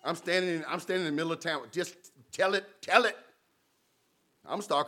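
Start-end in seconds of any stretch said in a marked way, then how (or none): 1.7-3.2 high, rising cheer urging more; egging on. Retold or imitated. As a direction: hype a friend's rant. Cheering a complaining friend.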